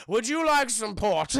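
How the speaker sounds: slow, loud tipsy offer; drunk old friend. Retold or imitated. Drunk family friend offering Lara a drink, slow tipsy voice. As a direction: play a mock drunk host. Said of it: "who is a fucking drunk".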